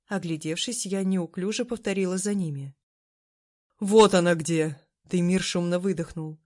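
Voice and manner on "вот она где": loud relieved outburst; relieved exclamation. Acted. Demir bursting into the kitchen, loud relieved exclamation. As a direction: call it out, finally found her.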